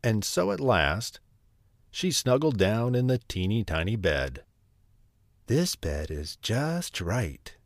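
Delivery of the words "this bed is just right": slow, lightly voiced satisfied girl; contented Goldilocks. A narrator's reading. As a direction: savour it slowly, pleased at last.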